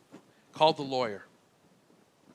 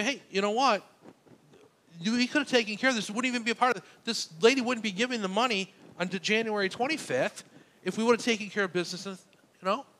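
higher, quicker, mildly irritated pleading; retold upset; 6 semitones higher than usual. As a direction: press the lawyer with mild, exasperated frustration. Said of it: "I get a little bit upset with the lawyer".

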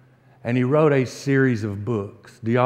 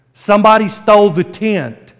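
louder, higher callback line; emphatic callback; 5 semitones higher, 5 dB louder than usual. Acted. Preacher to congregation, loud emphatic callback. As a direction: hammer the punchline home.

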